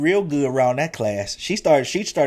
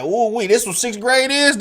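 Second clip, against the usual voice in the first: high, loud, wide-eyed "ooh wee"; a boy stunned by his new teacher; amazed kid; 11 semitones higher, 5 dB louder than usual. Retold or imitated. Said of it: "I was like".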